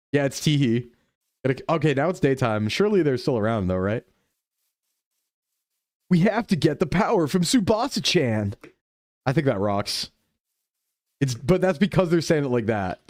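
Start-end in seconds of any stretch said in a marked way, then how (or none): 6.1-8.5 anime dub voice. Retold or imitated. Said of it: "really dub style".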